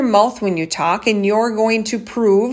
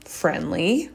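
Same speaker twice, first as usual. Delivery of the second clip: soft "friendly" with a rising end; 6 dB quieter than usual. Shown as a demonstration. Speaker offering the alternative to commanding, soft friendly lilt. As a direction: lift "friendly" lightly and softly, like a question. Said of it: "Instead of".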